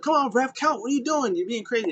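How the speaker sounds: high, whining complaint at the ref; mock whiny protest. Sami protesting to the referee, high whiny voice. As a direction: whine at the referee. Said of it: "He was like".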